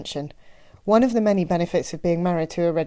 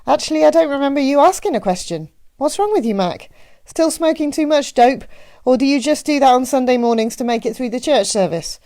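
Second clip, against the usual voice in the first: high, loud Midwestern matron, ribbing him; mock-puzzled Midwestern postmaster; Annie; 6 semitones higher, 5 dB louder than usual. A narrator's reading. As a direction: needle him in a Midwestern accent. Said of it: "her Midwestern accent left no doubt".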